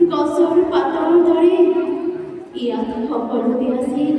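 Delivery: formal stage poetry reading; poem recitation. Acted. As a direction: recite it in short lines with long pauses.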